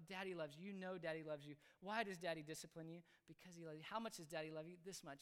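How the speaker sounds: put-on low, soft father-to-child voice; gentle affirmation. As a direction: quietly reassure your little one. Father affirming love to his child.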